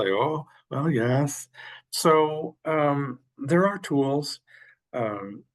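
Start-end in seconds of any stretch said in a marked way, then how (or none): 0.1-1.5 imitating a sheepish student, pitched higher; lightly acted sheepish confession; mock sheepish admission. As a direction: own up reluctantly, as if caught out. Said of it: "they'll sheepishly say".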